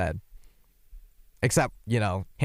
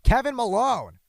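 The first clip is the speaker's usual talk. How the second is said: announcer intro. Acted. Hyping up a fake guest.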